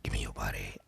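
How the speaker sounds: very low, quiet creepy voice; deep villain voice. Retold or imitated. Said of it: "Sledge Villain was like".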